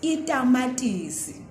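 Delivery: teaching the plain t in a word; unaspirated t demo. Shown as a demonstration. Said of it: "starting with the ta sound".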